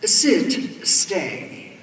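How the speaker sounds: loud, firm animal commands; calling down. A narrator's reading. Grandma ordering the wolves to stop, calling down firmly. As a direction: call the animals off from above. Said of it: "Grandma called down".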